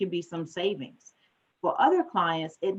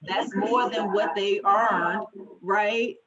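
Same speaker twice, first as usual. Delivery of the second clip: slow, higher-pitched, deliberate emphasis; 4 semitones higher, 4 dB louder, slower than usual. Real, not acted. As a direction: spell it out slowly, stretching the words. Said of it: "let me slow down".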